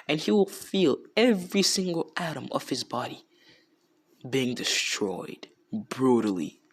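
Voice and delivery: a hint of a menacing judge, part whispered; menacing sentence. Naruto pronounces cruel sentence.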